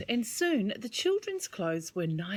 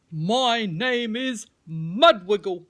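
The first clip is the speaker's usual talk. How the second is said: louder, slow proud worm voice; 8 dB louder, slower than usual. Acted. Mudwiggle the worm introducing himself, slow and proud. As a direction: announce your name slowly and proudly. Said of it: "said the worm".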